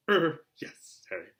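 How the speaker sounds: high, loud, strained sweetness; forced friendliness. Acted. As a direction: fake a smile through clenched nerves. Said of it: "forced his face to a smile".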